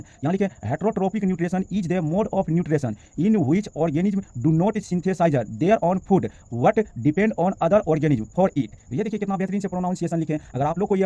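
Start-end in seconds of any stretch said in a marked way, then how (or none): 0.8-8.7 very slow, careful English reading; slow dictation. Shown as a demonstration. Teacher dictating the English definition slowly to the class. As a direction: read each word slowly so it can be copied. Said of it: "इसके नीचे pronunciation लिखे हैं, इसको, इनको पढ़ लेते हैं".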